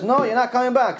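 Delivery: high, firm refusal as the other judge; stern judge refusing. Retold or imitated. The other judge refusing her plea, high and firm.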